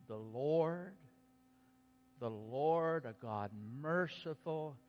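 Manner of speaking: slow, measured proclamation; solemn scripture reading. Acted. Preacher reading God's proclamation to the congregation, solemn and slow. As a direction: let each word land, solemnly.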